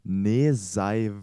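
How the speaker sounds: "Neseiv" repeated as a reversed word; backwards speech. Shown as a demonstration. (rückwärts gesprochen: "Neseiv")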